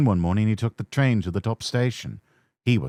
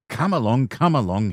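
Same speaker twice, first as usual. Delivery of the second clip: puffing; 4 semitones higher than usual. Acted. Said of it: "he puffed".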